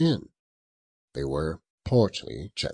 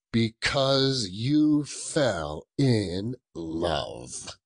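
slow mocking growl; 3 semitones higher, much slower than usual. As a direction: drag it out, scornful. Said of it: "growled Scrooge".

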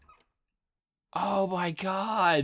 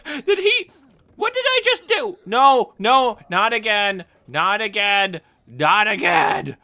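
exasperated alarm; 5 dB louder than usual. Real, not acted. Being attacked again.

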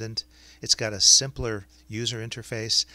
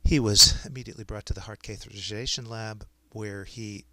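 dictating. Shown as a demonstration. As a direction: dictate clearly to speech software. Dictates a medical note to software.

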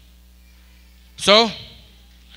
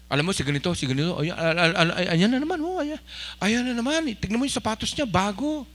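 hushed gossip, rising in pitch; gossipy whispering; 7 dB quieter, faster than usual. Acted. Gossip pointing out someone's new shoes to another, hushed and nosy. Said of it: "kuminsan yung mga pabulong, marites ho yun".

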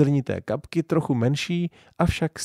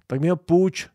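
put-on eager, higher little boy asking; pleased; 7 semitones higher, 3 dB louder than usual. A narrator's reading. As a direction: brighten up at the idea. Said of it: "potěšil se tatínek". (potěšeně, výš)

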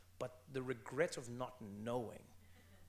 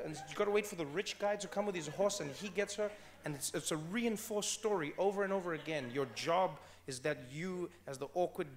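heated rant; 5 semitones higher, 6 dB louder than usual. Real, not acted. Continues heated fairy tale rant.

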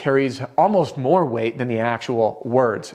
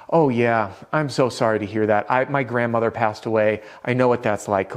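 empathetic. Shown as a demonstration. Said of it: "a form of empathy".

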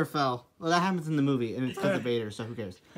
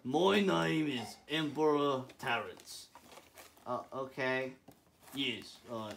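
deep Emperor voice; 5 semitones lower, 15 dB quieter than usual. Acted.

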